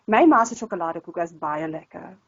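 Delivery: lightly put-on Coloured Afrikaans accent. Shown as a demonstration. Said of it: "more of a, a color type of accent".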